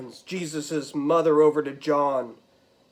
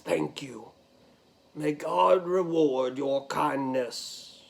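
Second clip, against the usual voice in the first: quiet gratitude; 4 semitones lower, 4 dB quieter than usual. Acted. Joseph thanks the soldier.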